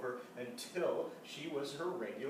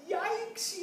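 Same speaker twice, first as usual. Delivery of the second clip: loud, high startled yikes; yelled yikes; 5 dB louder than usual. A narrator's reading. Mother yelping in alarm at her daughter. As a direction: yelp it. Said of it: "yelled her mother".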